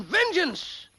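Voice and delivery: a mock-heroic shouted word; shouting. George voicing the Corsican's vengeful cry. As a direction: cry out the oath.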